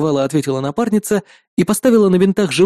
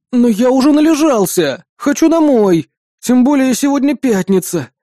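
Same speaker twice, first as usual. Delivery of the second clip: higher, petulant protest; doomed whine; 7 semitones higher, 4 dB louder than usual. Acted. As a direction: complain like a trapped patient. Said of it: "обречённо выдохнул я". (обречённый капризный возглас)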